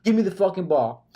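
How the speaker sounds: a hint of a demanding star; lightly voiced diva wide receiver. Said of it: "the diva receiver was".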